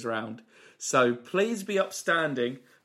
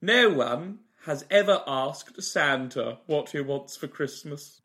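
Michael Holmeal. Acted. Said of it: "It's Mister Michael Holmeal".

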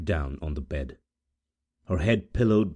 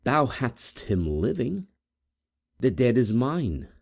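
lofty maiden asserting her claim; proud rival; 7 semitones higher than usual. Acted. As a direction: claim the dead as yours. Proud girl claims the corpse.

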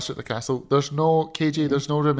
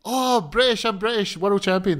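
boasting wrestler impression; 5 semitones higher than usual. Mimicking a wrestler claiming to be British in Cardiff, mock boasting. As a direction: crow it proudly in a raised voice. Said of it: "he's gonna be like".

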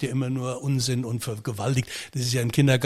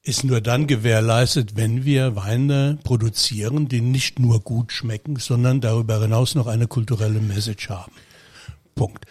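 theatrical. Acted. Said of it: "Jetzt rede ich mal ganz theatralisch daher".

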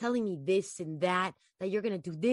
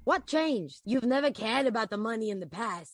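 Anthony, manipulative; 5 dB louder than usual. Acted. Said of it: "you're killing it right now".

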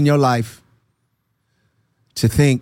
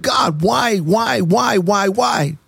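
retold pleading, pitched higher; questioning God; 4 semitones higher, much slower than usual. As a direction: plead why over and over, reenacted. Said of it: "I was questioning God".

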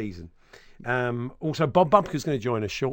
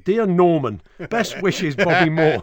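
reading it out through a laugh; amused, a laugh breaking in; 5 semitones higher, 7 dB louder, slower than usual. Retold or imitated. Reading out the misspelt autograph.

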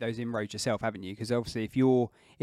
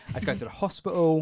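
ordinary talk

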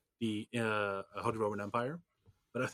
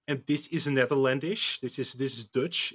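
Dutch accent; 4 dB louder than usual. Shown as a demonstration. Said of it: "They, they have to speak like this".

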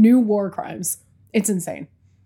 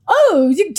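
mock actress line; 10 semitones higher, 9 dB louder than usual. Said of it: "She was like".

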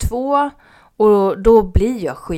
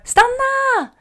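high, loud shout to stop cyclists; urgent loud call to passing bikes; 8 dB louder, much slower than usual. Retold or imitated. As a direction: yell after them to stop. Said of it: "Så jag ropar".

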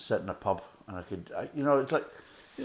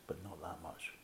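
whispered aside; 2 semitones lower, 13 dB quieter than usual. Real, not acted.

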